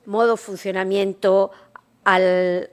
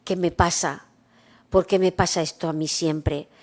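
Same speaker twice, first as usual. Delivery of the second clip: self-pitying inner voice; 3 semitones lower, 4 dB quieter than usual. Retold or imitated. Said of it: "Si yo empiezo a decir".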